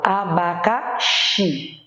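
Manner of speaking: "abacaxi" slow, syllable by syllable, landing on a long XI; spaced-out "a-ba-ca-XIII"; stress on last syllable. Shown as a demonstration. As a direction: stretch the final XI of "abacaxi". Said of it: "eu tenho por última a sílaba tônica".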